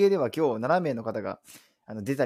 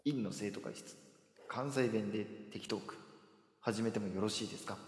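title call; 4 semitones lower, 12 dB quieter than usual. Shown as a demonstration. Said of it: "もう一回だけお願いします".

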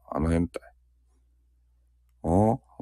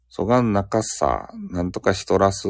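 slightly raised Nagasaki dialect imitation; 3 semitones higher than usual. Shown as a demonstration. Streamer giving viewers an example, light Nagasaki accent. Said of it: "長崎弁はね".

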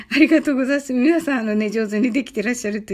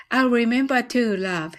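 at natural speed, one smooth line; faster take; slower than usual. Shown as a demonstration. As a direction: say it straight through at normal pace. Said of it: "次は早く言ってみましょう". (自然な速さで一息に)

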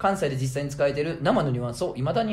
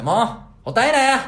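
mock granny scolding, higher, louder and slow; imitating a grandmother's scolding, higher and louder; scolding grandma; 9 semitones higher, 7 dB louder than usual. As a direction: tell off the rowdy kid like a grandmother. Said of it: "言うて".

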